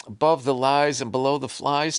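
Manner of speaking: Above the Lies and Below the Flies read out eagerly by a host, rising at the end; mock host announcing title.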